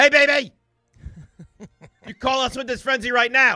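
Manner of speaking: seductive yell. Pushing the call-in line, a host yells at the listeners: yelling seductively. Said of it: "How about I talk dirty while yelling at them?".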